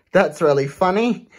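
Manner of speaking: laughing through the words. Real, not acted. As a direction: chuckle while saying it. Laughs at story.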